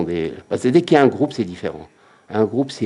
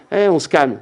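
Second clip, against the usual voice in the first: calming voice; 6 semitones higher, 4 dB louder than usual. Acted. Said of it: "Il n'a pas dit".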